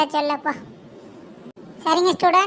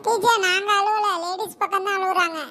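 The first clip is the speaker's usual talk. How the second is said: pupils telling teacher; 3 semitones higher than usual. Acted. Boys tell teacher the girls are crying, high pupil voice. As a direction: sing out the denial to teacher.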